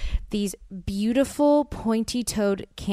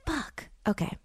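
deflated curse; 3 semitones higher, 8 dB quieter than usual. Retold or imitated. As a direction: let the air out on it. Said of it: "So I'm like".

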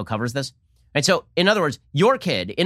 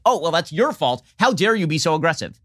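mock indignant media; 2 semitones higher than usual. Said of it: "And you're like".

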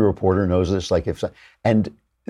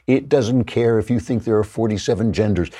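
normal talking voice

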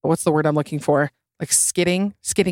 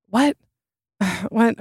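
high disbelieving What?; exasperated double take; incredulous; 5 semitones higher than usual. Real, not acted. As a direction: react in sharp disbelief. Incredulous reaction.

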